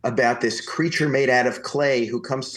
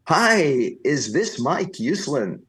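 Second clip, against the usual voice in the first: high, bright greeting then slower question; exuberant Stan Lee; 4 semitones higher, much slower than usual. Retold or imitated. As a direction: greet him big and cheerful. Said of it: "this exuberant male voice".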